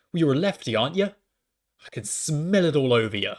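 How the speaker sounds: imitated taunting stranger, slowing at the end; accusing heckler. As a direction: sneer an accusation as a mocked heckler.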